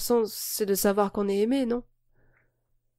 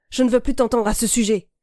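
threatening; 3 semitones higher, 5 dB louder than usual. Acted. Threatening her in a quarrel.

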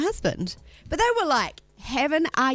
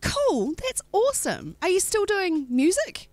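imitated enthusiasm; 10 semitones higher than usual. Retold woman gushing at husband.

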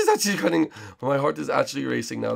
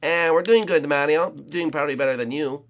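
Luigi voice. Acted. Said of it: "Luigi, how are you doing down there?".

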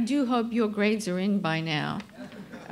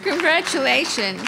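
louder, brighter congratulations; excited congratulations; 4 semitones higher, 5 dB louder than usual. Real, not acted. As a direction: cheer it out to the room. Cheering after hat toss.

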